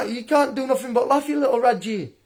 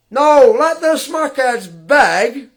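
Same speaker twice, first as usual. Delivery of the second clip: mock quote; 3 semitones higher, 4 dB louder, slower than usual. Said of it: "I'm laughing at you".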